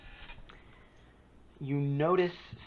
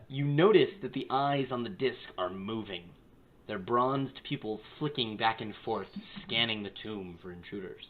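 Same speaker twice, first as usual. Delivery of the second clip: measured narration, settling lower towards the end; game master's scene setting; 3 semitones lower than usual. A narrator's reading. Game master describing the moving eyes, measured narration. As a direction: unveil the watching eyes as a narrator.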